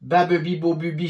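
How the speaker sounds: quick-fire even syllables; rapid one-breath drill. Shown as a demonstration. Teacher starting the one-breath challenge, rapid chant. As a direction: rattle the syllables off without pausing. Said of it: "d'une seule respiration".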